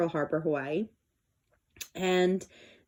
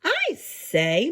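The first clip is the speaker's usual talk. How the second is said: murmur; 7 semitones higher than usual. Acted. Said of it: "murmured Horton".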